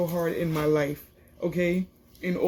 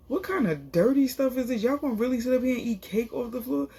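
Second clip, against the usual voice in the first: higher-pitched mock indignation; mad; 5 semitones higher than usual. Medina scolding people for eating cake off the floor, mad. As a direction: imitate an indignant telling-off, pitched up. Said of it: "why Medina's so mad though".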